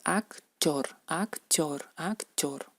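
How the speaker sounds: "actor" repetido con t suave tipo ch; ruso actor. Shown as a demonstration. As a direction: di "actor" como "akchor", tres veces. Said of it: "Todo podemos usar como equivalente". (pronunciación rusa de "actor")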